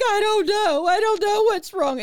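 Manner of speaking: high, loud, crying voice. Retold or imitated. Wife sobbing to her husband in a bar, crying. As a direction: wail it through tears. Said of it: "I started to cry".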